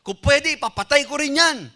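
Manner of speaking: high, somewhat loud royal boast; David thinks as king he can jail the man, high and indignant. Acted. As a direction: claim your power to punish like a proud angry king. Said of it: "sa isip-isip niya".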